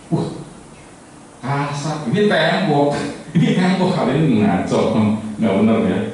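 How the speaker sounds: rough, it's a wall, you're all wrong; excited blind man. Acted. Third blind man feeling the side, excited and scornful.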